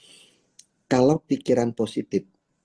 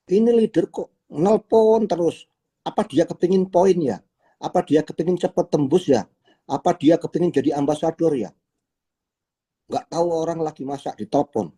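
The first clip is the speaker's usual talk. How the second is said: a higher, suspicious grumble; grumbling member; 6 semitones higher than usual. Acted. Member complaining about a leader who keeps calling, mock suspicious grumble. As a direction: mutter doubts about the nagging leader, half-acted.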